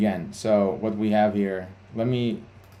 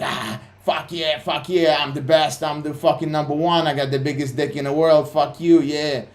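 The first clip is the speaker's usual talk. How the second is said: higher, hyped-up gloating, imitating a trader on a winning streak; mock cocky high; 4 semitones higher than usual. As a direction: crow like you think you're the best in the world, half-mocking. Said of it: "When you're in a high emotional state".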